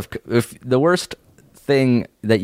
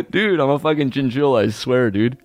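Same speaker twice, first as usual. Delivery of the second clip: laughing through words; 4 semitones higher than usual. Pretend. Pet bit while laughing.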